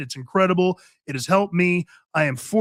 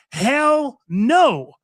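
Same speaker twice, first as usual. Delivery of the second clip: sheriff's defiant no, voiced by the host; defiant retort; 4 semitones higher than usual. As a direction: bark it out like a sheriff saying no way.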